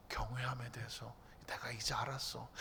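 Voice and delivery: God's voice as a low, tender whisper. Acted. God telling Abraham he now knows his reverence, whispered. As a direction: confide it like God speaking softly.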